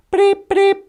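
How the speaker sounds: short vocal electronic beeps; imitated bleeps. Operator getting an incoming call, imitated bleeps. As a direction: mimic a machine bleeping twice.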